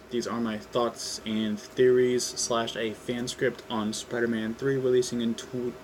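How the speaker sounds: usual speaking voice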